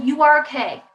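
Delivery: "You are okay" as a firm verdict; dismissive statement. Shown as a demonstration. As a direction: insist on it, closing the matter. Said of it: "Instead of".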